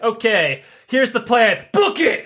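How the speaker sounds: building to a high, loud "Book it!"; excited urgent call. Retold or imitated. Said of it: "He's like".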